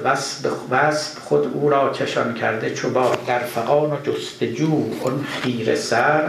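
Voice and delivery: measured, lilting reading of a Persian couplet; verse recitation. Acted. Lecturer reciting Rumi's couplet to his students, measured recitation.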